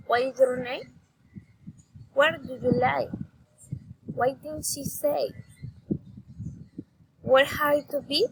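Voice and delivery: questions lifted at the last word, as in "to be?"; rising intonation. Shown as a demonstration. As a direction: end "name" and "be" on a rise. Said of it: "raising intonation".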